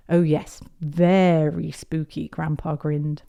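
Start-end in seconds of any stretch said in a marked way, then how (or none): 0.1-2.3 slow, stretched "very"; drawn-out agreement. Acted. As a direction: play up "very spooky" slowly. Grandpa playfully agreeing, word drawn out.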